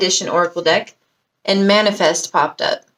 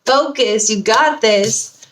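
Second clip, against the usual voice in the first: spirit's encouraging voice; 4 semitones higher, slower than usual. Retold or imitated. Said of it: "I feel like spirit is just like".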